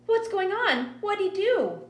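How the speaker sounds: put-on high, loud, panicky child's questions; alarmed little girl. A narrator's reading. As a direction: cry it out like a scared kid. Frightened child asks in alarm.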